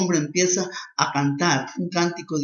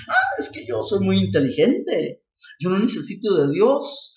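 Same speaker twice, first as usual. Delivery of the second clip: arrogant know-it-all; 3 semitones higher, 3 dB louder than usual. Acted. A proud intellectual boasts to the preacher, smug. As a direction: brag as if too clever to need God.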